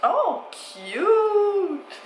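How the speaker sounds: petit cri aigu de joie; s'extasie devant le cadeau; excitée. Real, not acted. Découvre le colis surprise. (ravie et surprise)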